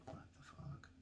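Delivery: an unvoiced, stunned whisper; whispered curse. Whispering back to the clerk, stunned whispered curse. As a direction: hiss it back under your breath.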